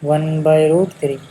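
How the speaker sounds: very slow, word by word; slow, deliberate teacher repeat; slow dictation. Shown as a demonstration. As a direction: spell it out slowly for students to write. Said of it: "कितना होता है?".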